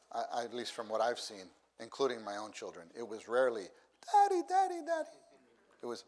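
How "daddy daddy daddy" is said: high, loud calling out; child calling daddy. Retold or imitated. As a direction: call for dad like an excited small child.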